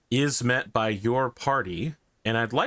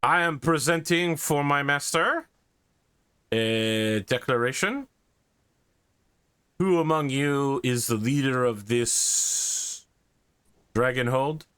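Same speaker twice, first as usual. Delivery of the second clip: gravelly sly hobgoblin; 3 semitones higher than usual. Acted. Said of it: "The Hobgoblin says".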